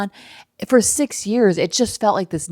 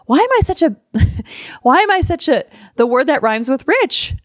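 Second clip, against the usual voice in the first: exasperated outburst; 7 semitones higher, 4 dB louder than usual. Retold or imitated. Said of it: "And then I was like".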